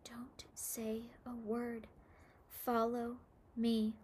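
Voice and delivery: slow, breathy whisper; hushed slow whisper to the lost boy. A narrator's reading. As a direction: whisper it so nobody hears.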